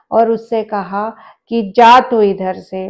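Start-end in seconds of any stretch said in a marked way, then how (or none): 1.8-2.9 louder, sharp command to leave; a god's loud rebuke of an intruder; retold angry shout. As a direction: drive him off with a loud order. God shouting the boy away.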